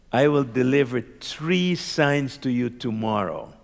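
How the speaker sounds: slow, measured pronouncement; deliberate retold promise, unhurried; retold archangel's voice. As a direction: lightly voice a heavenly messenger, spacing the words. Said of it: "And then the voice said".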